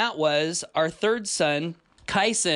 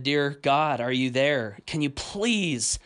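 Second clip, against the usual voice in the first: sincere prayer. Retold or imitated. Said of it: "one of the most sincere prayers I've ever offered".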